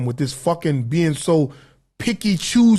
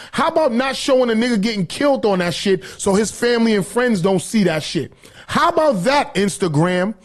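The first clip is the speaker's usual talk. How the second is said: heated, higher-pitched challenge; indignant rant; 3 semitones higher than usual. Real, not acted. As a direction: throw it back at Instagram, fed up. Ranting at Instagram over blocked post.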